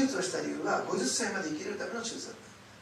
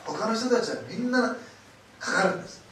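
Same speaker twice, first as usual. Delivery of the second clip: emphatic preaching; 6 semitones higher, 9 dB louder than usual. Real, not acted. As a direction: proclaim that the others all fall ill. Preacher stresses a contrast.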